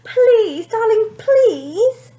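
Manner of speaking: high, loud, slow plea; mother pleading, shouting over the din. A narrator's reading. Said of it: "pleaded Mother".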